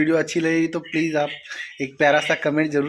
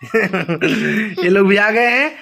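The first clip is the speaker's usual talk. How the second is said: laughing; much slower than usual. Real, not acted. Laughing while introducing niece, nephew.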